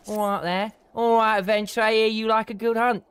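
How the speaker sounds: lightly voiced Essex noble, grand and formal; Essex quest giver. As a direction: announce the hunt like a proud Essex lord.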